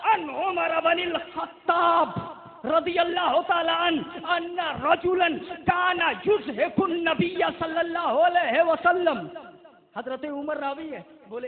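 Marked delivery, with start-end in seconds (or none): 0.1-9.2 measured, emphatic Arabic recitation; hadith recitation. Real, not acted. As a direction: proclaim the Arabic text to a congregation. (अरबी हदीस की बुलंद, ठहरी हुई तिलावत)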